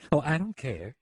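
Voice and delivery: a touch of carefree good cheer; mildly jovial. Acted. Woman brushes off his worry about the mess, mildly jovial. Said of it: "she said, turning more jovial".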